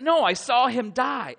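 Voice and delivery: high, loud, slow protest; an incredulous cry; loud disbelief. Acted. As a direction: refuse to believe it, out loud. Disciple's disbelieving retort.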